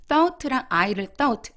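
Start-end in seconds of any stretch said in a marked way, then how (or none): 1.2-1.5 "thought" alone, cut off before "I"; separated words. Shown as a demonstration. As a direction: say "thought" as a word by itself. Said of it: "끊지 마시고". ("thought"만 따로 끊어서)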